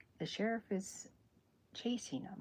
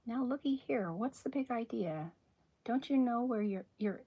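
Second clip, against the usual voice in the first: lightly voiced sheriff, higher and louder; 4 semitones higher, 5 dB louder than usual. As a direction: put a touch of indignant sheriff on it. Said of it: "And so the sheriff goes".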